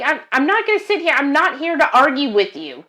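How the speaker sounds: exasperated refusal. Retold or imitated. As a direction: rattle it off, fed up with the caller. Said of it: "I'm like".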